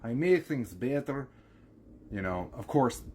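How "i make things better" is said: put-on higher-pitched Russian accent. Katya telling how they fix things, Russian accent. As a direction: play a Russian handywoman, pitched up. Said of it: "basically the Russian accent".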